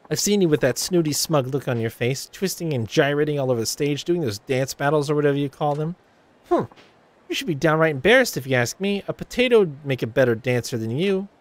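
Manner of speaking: catty Ulala sneering at Haruka; snide rival idol. Acted. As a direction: belittle the upstart.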